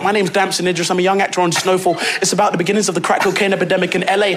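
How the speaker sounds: quick, eager fan introduction; gushing, run-on self-introduction; nervous gushing. Retold or imitated. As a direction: rattle it off to your idol without a breath. Nervous actor introducing himself to idol.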